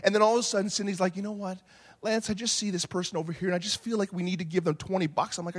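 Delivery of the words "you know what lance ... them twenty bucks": soft, quick little request; mock-sweet soft appeal; imitated gentle wife. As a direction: voice a wife softly making her case. Voicing gentle wife asking to give.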